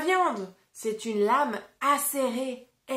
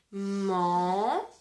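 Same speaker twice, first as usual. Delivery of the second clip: "Manger" in two drawn-out beats, the first lower; syllable by syllable; 4 semitones lower than usual. Shown as a demonstration. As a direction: hold the man of "Manger", pause, then lift on ger. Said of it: "Deux syllabes".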